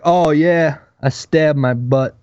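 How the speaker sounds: offhand, slowing into a sheepish admission; mock-casual understatement after the panic; nonchalant reply. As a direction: act out casually remembering, unbothered.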